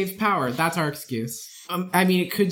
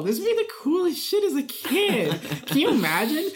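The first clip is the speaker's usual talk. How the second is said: much higher, gushing with excitement; excited; 10 semitones higher than usual. Real, not acted. Excited about the idea.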